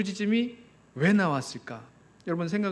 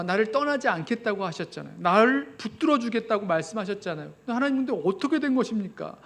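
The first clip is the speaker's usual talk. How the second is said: raised, aching complaint to God; pleading protest; 3 semitones higher than usual. Acted. Preacher voicing a believer who confronts God, rising plea. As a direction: argue with God like a hurt child.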